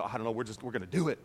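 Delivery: low, soft reply to wife; retold quiet assurance; quietly assured husband. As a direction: play down the worry in a low voice. Retold husband brushing off wife's worry.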